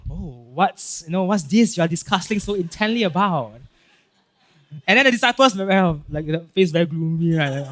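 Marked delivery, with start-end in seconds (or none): 0.1-3.5 offhand, casually curious question. Acted. Preacher acts Jesus joining the disciples, casual. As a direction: ask it as if just happening by. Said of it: "and then casually asks them".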